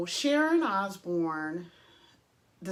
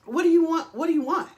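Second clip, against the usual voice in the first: mock angry shout; 8 semitones higher, 6 dB louder, much faster than usual. Mocking Sharon's angry outburst.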